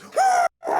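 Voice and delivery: high whooping cheer; theater cheer. Retold or imitated. Imitating everyone in the theater, whooping high. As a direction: let out a crowd whoop. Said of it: "everyone goes".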